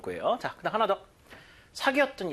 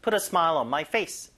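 slow read ending on a rise; same slow pace, lift the end; slow drill pace; much slower than usual. Shown as a demonstration. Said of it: "이 속도로 해보세요". (천천히, 끝을 올려서)

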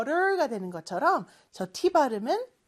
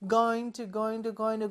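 slow full form; 3 semitones lower, 4 dB quieter, much slower than usual. Shown as a demonstration. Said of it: "빠르게 발음하다 보니까".

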